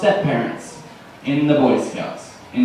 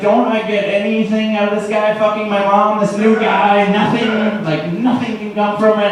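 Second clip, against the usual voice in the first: put-on higher, indignant kid whining about his new stepdad; mock kid outrage; 5 semitones higher than usual. Comic complaining to the audience about the stepdad, higher and indignant. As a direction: protest like a cheated nine-year-old. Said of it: "And I was, like, so angry".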